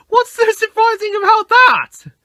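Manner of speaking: high, loud, amused question; Percy teasing James, amused; laughing Percy. A narrator's reading. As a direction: tease through laughter. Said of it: "laughed Percy".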